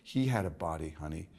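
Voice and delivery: low, confiding American woman impression; lightly voiced actress gushing low; Diane Cannon. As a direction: quote her in a low, knowing murmur. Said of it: "Diane Cannon would say to me".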